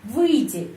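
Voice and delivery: "Выйти" stressed on the first syllable, then falling; word stress demo. Shown as a demonstration. Teacher repeats the word for going out, first syllable stressed. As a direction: hit the start of "Выйти". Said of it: "penekanan di sini".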